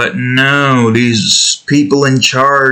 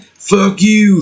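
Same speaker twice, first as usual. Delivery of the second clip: mock angry yell; 10 semitones higher than usual. Imagined Republicans throwing beer at the artist, mock angry yell. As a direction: imitate an irate heckler without real volume.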